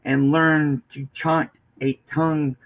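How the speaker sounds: measured recitation with lingering phrase ends; poetry reading. Acted. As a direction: read the poem aloud, pausing between phrases. Continues reading the poem aloud.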